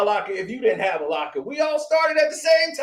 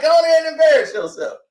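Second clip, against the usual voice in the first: dismissive, faster and louder; 4 semitones higher, faster than usual. Retold or imitated. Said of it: "That's all I was like".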